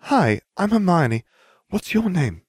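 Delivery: high, slowed, gentle greeting; kindly, sing-song girl's voice; softened voice. A narrator's reading. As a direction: introduce yourself as if to a small child. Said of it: "as her voice softened".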